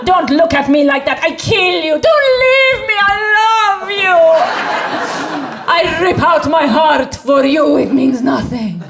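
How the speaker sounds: hammed-up daughter's tragic outburst rising to a cry; melodramatic daughter. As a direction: rant like a furious little diva then howl.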